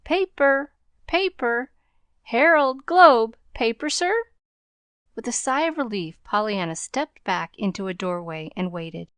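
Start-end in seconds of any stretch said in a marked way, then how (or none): 0.1-4.1 higher, louder newsboy hawking papers; strident call. A narrator's reading. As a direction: call out to the crowd to sell papers. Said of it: "his strident call of".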